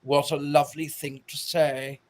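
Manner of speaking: understated British actor impression; a hint of mannered British drollery; Tim Curry. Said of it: "And he says".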